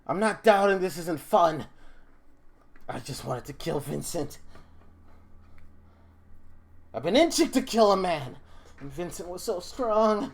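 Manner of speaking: lifted, emphatic in-character complaint; a touch of pleading intensity; lightly voiced frustrated fighter. Fighter confessing to her opponent, lightly voiced frustration. Game master voices combatant.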